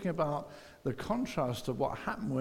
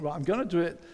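eager resolution. Retold or imitated. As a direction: pump yourself up till the last line bursts out. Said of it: "we think".

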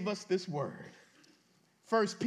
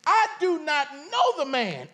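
louder, heated, KNOW pushed out hard; cursing denial; 3 semitones higher, 5 dB louder than usual. Acted. Peter swearing at the bystanders in the courtyard, louder heated denial. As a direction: hurl the denial with an oath. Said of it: "Then he began to curse and swear".

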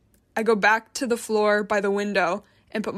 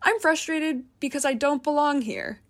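careful; 6 semitones higher than usual. A narrator's reading. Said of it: "I say carefully".

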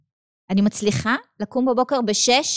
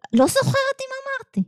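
much higher, put-on fretting voice; mock dismay; 13 semitones higher than usual. Teacher acting out her own forgetful panic, high and whiny. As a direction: whine it like a flustered worshipper.

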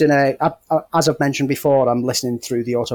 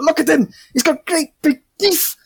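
Tim the Enchanter impression. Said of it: "It's like".

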